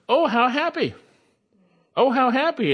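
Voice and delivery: high-pitched, ringing "Oh, how happy"; emphatic exclamation. Shown as a demonstration. Preacher voicing the inspired text, "Oh, how happy" exclaimed emphatically. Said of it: "is actually emphatic".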